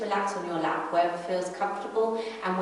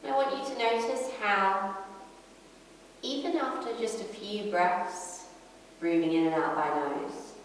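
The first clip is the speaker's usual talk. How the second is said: calm yoga teacher, unhurried with long pauses; guided breathing meditation. Acted. Yoga teacher guiding a class inward to the breath, calm meditation voice. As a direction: lead them gently through the breath, pausing between phrases.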